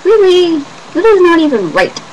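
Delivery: mock outraged disbelief; exasperated disbelief. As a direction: squeal at the bad timing. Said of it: "And I'm like".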